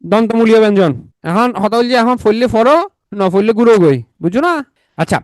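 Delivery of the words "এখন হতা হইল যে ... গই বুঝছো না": put-on teasing Chittagonian accent, lightly done; Chittagong dialect. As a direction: toss the line off in a Chittagong accent. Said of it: "Chittagong ভাষা আপনারা বুঝেন নাকি?". (মজা করে চাটগাঁইয়া টানে)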